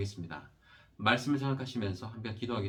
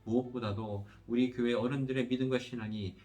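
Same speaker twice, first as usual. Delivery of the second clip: steady, evenly pitched praying voice with little melody; earnest pastoral prayer. Real, not acted. Pastor leading the congregation in prayer after the sermon, earnest prayer. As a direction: pray aloud in long, rolling petitions that settle at each close.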